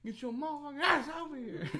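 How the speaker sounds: high, urgent imitated tough guy; mock threatening order. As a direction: order him over, hammed up. Acting the threatening strangers.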